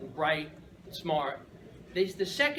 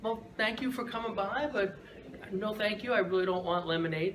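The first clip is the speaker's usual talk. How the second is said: polite no; 4 semitones higher than usual. Retold or imitated. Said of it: "I'm like / I said it in a nice way".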